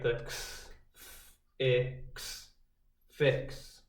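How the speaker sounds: soft unvoiced ks on "X" and "fix"; stressing the X sound. Shown as a demonstration. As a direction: hiss the ending ks of "fix". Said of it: "we hear that X at the end".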